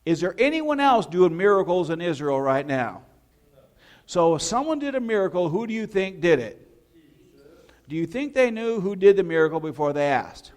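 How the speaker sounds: forceful sermon questions; preaching at full force. Real, not acted. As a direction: press the congregation for an answer. Preacher challenges congregation.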